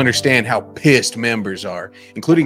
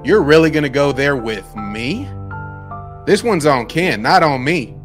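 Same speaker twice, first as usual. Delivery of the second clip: angry; 4 semitones higher, 7 dB louder than usual. Acted. Acted quarrel, texts read.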